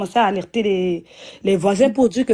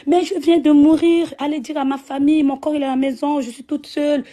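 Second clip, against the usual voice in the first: retold crying out; 5 semitones higher than usual. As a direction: call out frantically to strangers who cannot hear you. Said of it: "Et je criais comme ça". (appel au secours crié, aigu et fort)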